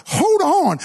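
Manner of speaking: high, abrupt hold on; sudden stop. Acted. Preacher cutting off his own excuse, abrupt and high. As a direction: catch himself mid-thought.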